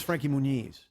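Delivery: "Muniz" with a long ee before the z; surname pronunciation. Shown as a demonstration. Storyteller settling the name, pronouncing "Muniz" as moo-NEEZ. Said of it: "how to pronounce it better".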